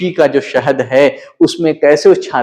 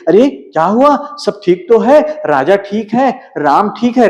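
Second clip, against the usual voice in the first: anxious questions, higher pitched; frightened; 4 semitones higher than usual. Acted. The queen fears for the king and Ram, anxiously asking. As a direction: ask in a rush of worry about loved ones. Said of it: "तो रानी डर जाती है".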